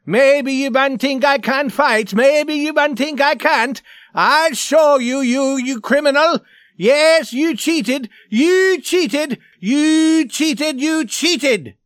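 high, loud, frenzied tirade; mad roaring rage. A narrator's reading. Swede raging at the man he accuses, frenzied roaring. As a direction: rant like a mad devil at full pitch. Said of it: "He was like a mad devil".

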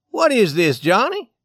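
loud, high demand of a father; Scully. Acted. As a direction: turn on your son for an answer. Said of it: "Scully turned upon his son".

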